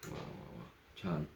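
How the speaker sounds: breathless whisper of creepy delight; whispered admiration. Acted. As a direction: whisper it, savouring the moment. Admiring her bangles creepily. (कुजबुजत कौतुक)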